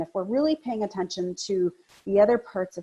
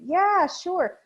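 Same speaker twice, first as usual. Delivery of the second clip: reluctant yes; 9 semitones higher than usual. Shown as a demonstration. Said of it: "pulling away and saying".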